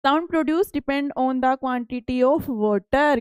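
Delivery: reads each English word out slowly and carefully; slow textbook reading. Acted. Teacher reading the textbook aloud to pupils, slow and deliberate. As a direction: spell out the book line for the class.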